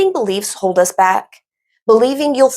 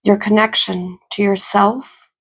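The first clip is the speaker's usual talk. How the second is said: calm, even meditation voice with long pauses; guided meditation. Acted. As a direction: ease them into stillness, phrase by phrase.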